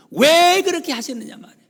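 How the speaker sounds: high, loud impassioned cry. Real, not acted. Preacher on Jesus's suffering, loud impassioned cry. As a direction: pour it out at full force.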